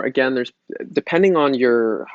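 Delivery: ordinary talk, nothing marked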